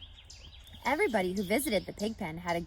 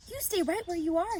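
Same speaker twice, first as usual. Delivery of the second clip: stern mother; 10 semitones higher than usual. A narrator's reading. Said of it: "said her mother".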